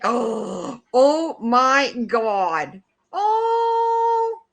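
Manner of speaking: gasping, slow, rising to a very high squeal; delighted gasp. Real, not acted. On seeing a Pomeranian photo, a delighted high squeal. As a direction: melt over a cute dog photo.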